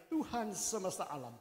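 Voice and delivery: loud, earnest vow, pleading to God; Hannah's loud, tearful vow to God; fervent prayer. Retold or imitated. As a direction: pour out the vow at full voice, begging. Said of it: "bernazarlah ia katanya".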